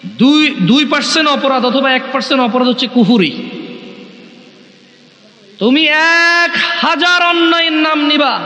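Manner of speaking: declaiming sermon to a crowd, rising pitch; fervent sermon voice; preaching sermon. Acted. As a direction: preach it out to the gathering. Islamic sermon to gathering.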